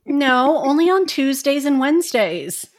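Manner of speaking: loud laughing tease. Real, not acted. Teasing reply, laughing.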